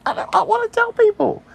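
high, whiny begging voice; pleading priest. Retold or imitated. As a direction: beg like a desperate priest.

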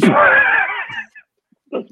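very high, slow, shrieking laugh-words; cackling high protest; laughing scream. Real, not acted.

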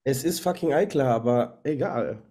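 talking with a stuffy nose; congested, nose blocked from a cold. Real, not acted. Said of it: "weil du so erkältet bist".

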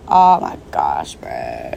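breathless whisper, very slow; whispered panic. Retold or imitated. Retelling her panic as the cop walks up, a slow whisper. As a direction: hiss it under your breath in dread.

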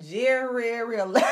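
Jerry eleven shouted high, mocking her; imitating her mispronunciation. Host imitating a girl who mangled a word, mock shout. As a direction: shout it like she botched it. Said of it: "That girl said".

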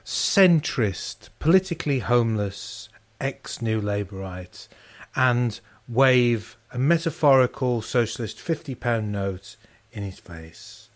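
measured, slow-paced radio presenter delivery; radio introduction voice. Real, not acted. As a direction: introduce the show slowly, like a radio host. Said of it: "how deep your voice goes when you start doing a radio introduction".

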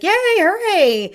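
high, loud, slow "yay hooray" cheer; hammed-up sing-song praise for a slow dog; mock overjoyed praise. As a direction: gush over the dog like a cheerleader. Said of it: "you don't wanna then be like".

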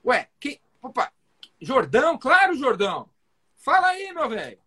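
surprised doctor. Retold or imitated. Doctor pretending to know caller.

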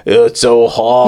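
badly faked Polish accent, drawn out; slow, comic attempt at a Polish accent. Defendant complaining of the heat, fake Polish accent. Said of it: "that, that Polish accent".

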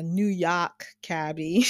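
put-on light New York cabbie accent, Yawk drawn out; a quick playful New York accent on cabbie. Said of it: "That was my New Yawk accent".

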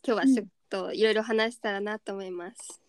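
sore, hoarse throat voice. Real, not acted. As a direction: talk through a worn-out hoarse throat. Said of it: "いつもと声が違うぐらい喉が枯れている".

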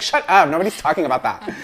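high, loud mock snap. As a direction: tell them off in jest. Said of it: "And it's like".

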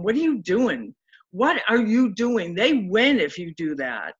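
half-hearted self-rebuke, pushing herself to fight back; angry at herself. Retold or imitated. In the hospital, scolding herself for giving up, mildly angry. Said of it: "I got so mad at myself".

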